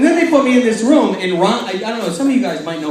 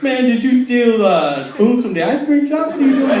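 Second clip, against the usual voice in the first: teasing inmate; 5 semitones higher than usual. Retold or imitated. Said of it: "it was like".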